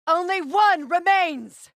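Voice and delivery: high, loud, drawn-out correction; slow urgent shout. Acted. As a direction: call out his mistake across the fight. Final enemy callout.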